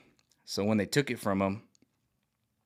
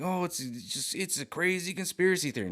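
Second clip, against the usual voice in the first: much higher, sneering mock voice; mock dismissive; 8 semitones higher than usual. Mocking elites dismissing conspiracies, a high sneering parody. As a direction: parody them waving it away. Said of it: "And they're like".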